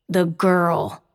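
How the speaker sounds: through gritted teeth; words pushed through clenched teeth. A narrator's reading. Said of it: "Nico says through gritted teeth".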